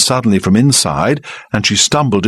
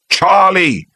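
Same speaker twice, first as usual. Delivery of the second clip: high, sharp rebuke; sharply; 11 semitones higher than usual. Acted. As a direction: cut him off sharply. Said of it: "Fred Elliot said sharply".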